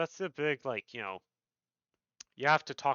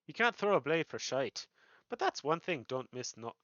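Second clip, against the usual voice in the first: guild master slipping into Irish; lightly Irish rogue banter; Irish accent. Acted. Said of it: "I just instinctively want to speak in an Irish accent".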